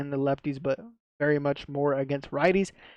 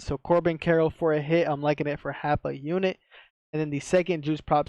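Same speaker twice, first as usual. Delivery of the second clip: slight lisp from a retainer; talking around a mouth retainer; wearing a retainer. Real, not acted. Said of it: "I got my retainer in, so it might sound like I have a lisp".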